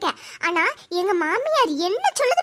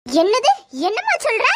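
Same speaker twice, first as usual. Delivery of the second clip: shocked; 3 semitones lower than usual. Acted. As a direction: gasp out என்னது in shock. Shocked at the news.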